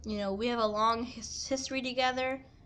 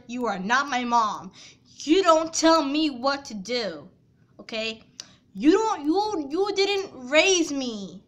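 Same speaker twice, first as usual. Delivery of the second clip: raised, heated voice, pushing each point; angry rant; 3 semitones higher, 5 dB louder than usual. Retold or imitated. Daughter defending her choice to her stepmom, angry and loud. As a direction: tell the stepmom off, loud and fed up.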